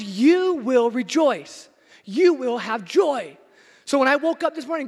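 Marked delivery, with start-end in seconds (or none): 0.0-3.4 slow, louder, commanding; solemn divine command. Retold or imitated. Preacher voicing God commanding his people to rejoice. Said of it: "God says".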